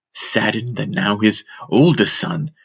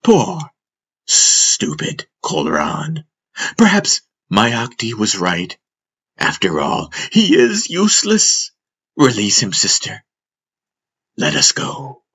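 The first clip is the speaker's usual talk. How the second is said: Jandi the snake; 2 semitones higher than usual. Acted. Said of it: "The master's rendition of Jandi's voice".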